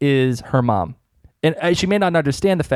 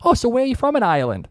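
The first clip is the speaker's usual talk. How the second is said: clerk; 9 semitones higher, faster than usual. Retold or imitated. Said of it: "he says".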